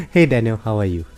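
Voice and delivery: normal talking voice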